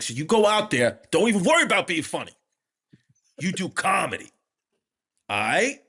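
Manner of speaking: imitated fond pep talk; mock-earnest encouragement with pauses between thoughts; Tracy Morgan. Imitating a star sending a comic onstage, mock-loving. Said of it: "he said it so lovingly and affectionately".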